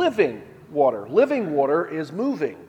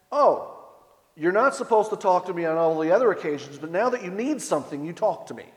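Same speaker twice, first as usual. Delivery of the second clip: sarcastic retort; 2 semitones higher, faster than usual. Retold or imitated. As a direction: toss it back with light sarcasm. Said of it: "responds to him sarcastically".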